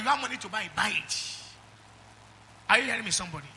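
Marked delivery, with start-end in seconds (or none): 2.7-3.5 louder call for amen; loud call and response. Real, not acted. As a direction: demand a response from the crowd. Calling for amen.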